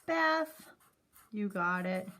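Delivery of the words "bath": excited answer. Shown as a demonstration. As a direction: announce the word brightly. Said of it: "equals what word, friends".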